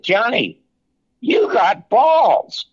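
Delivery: retelling the boss's admiring outburst; impressed exclamation. Retold or imitated. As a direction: hammer it out slowly like an impressed boss. Sinatra impressed by his nerve.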